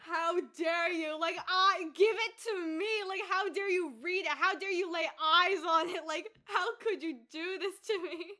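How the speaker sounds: loud, hammed-up indignation; mock outrage. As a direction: scold a book thief with theatrical fury. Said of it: "angry at Doris".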